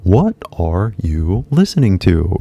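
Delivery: "What are you listening to" said slowly, word by word; measured classroom delivery; school English. Shown as a demonstration. Teacher imitates the English taught at school. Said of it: "学校で習った".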